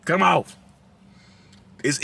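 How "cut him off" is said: high, loud soul-singer mock cry. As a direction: belt it like a jokey soul crooner. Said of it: a joking exclamation referencing a soul singer.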